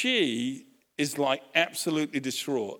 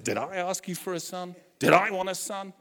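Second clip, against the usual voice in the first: upset mother; 4 semitones higher than usual. Retold or imitated. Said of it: "she kinda lets it all out".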